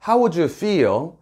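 slow but linked as one chunk; smooth one-breath chunk. Shown as a demonstration. Teacher showing one smooth chunk for learners. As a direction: run the words together smoothly. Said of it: "한 번에 매끄럽게 읽으시고요".

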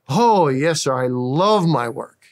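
loud, bright and eager reply; proud worker telling a stranger he loves his job, eagerly; cheerful worker. Retold or imitated. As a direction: answer with glad enthusiasm. Cheerful worker answers the preacher.

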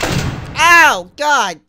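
high, loud yelp of pain; real sting from the noise. Real, not acted. Blasted by loud audio, a sharp pained ow. Ear-splitting game noise.

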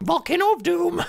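high, hammed-up doom title; mock-epic announcer. Gamer hamming up the volcano name in a high voice. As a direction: boom out the title like a cartoon.

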